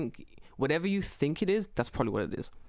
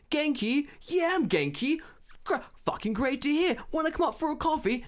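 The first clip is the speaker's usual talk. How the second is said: put-on old man shouting; 11 semitones higher than usual. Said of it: "just like".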